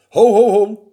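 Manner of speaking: loud "whoa there" from the mouse; calling out. A narrator's reading. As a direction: call a halt, loud and firm. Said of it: "riep de muis".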